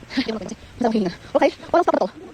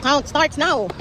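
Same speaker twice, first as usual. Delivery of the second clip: excited announcement; 4 semitones higher, 6 dB louder, much slower than usual. Real, not acted. Vlogger announcing climb challenge.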